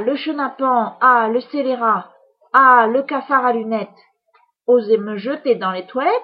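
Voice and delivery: loud, high, outraged witch voice; furious witch cackling over revenge; angry witch. Acted. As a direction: fume like a vain, insulted witch. Witch rages in the toilet.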